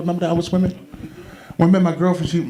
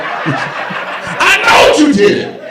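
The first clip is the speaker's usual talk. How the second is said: put-on old man accusing; 13 semitones higher, 5 dB louder than usual. Doctor Rob accusing his neighbor of siphoning gas, hammed-up shouting. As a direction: yell it like a confused old man blaming the neighbor. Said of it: "he accusing the neighbor".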